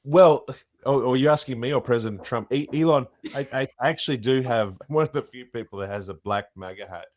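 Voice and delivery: halting stammering tech boss voice; Elon Musk. Acted. Impressionist answering the host as the tech boss. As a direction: lots of hesitant yeahs and ums. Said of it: "do you do Elon?".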